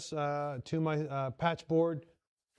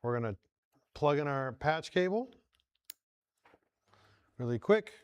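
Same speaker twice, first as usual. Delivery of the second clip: put-on Southern accent; 3 semitones lower, 3 dB quieter than usual. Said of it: "like, a Southern accent".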